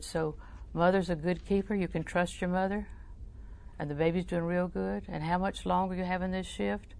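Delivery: soft, reassuring voice; warm tones. Retold or imitated. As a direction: gently reassure a distressed waitress. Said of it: "your warm tones and voice".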